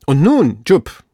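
agitated shout to the servant; very excited. A narrator's reading. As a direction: call up with rising excitement. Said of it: "offenbar sehr erregt".

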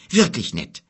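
understated weary sarcasm; groaned. Acted. Boy resigned to his escorts, mildly groaning. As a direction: repeat the thanks with faint resignation. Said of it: "stöhnte Kim".

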